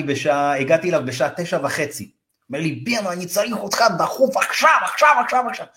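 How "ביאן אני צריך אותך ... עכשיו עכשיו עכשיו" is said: higher and faster, frantic urgent call; urgent demand. Retold or imitated. Panicked client calling the agent late at night, urgently. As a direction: hurry him over like it's an emergency.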